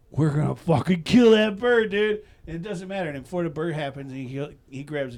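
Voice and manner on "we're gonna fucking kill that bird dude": higher, loud eager bark; excited cat. Retold or imitated. The cat spotting a bird, loud high eagerness. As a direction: pump up the hunt.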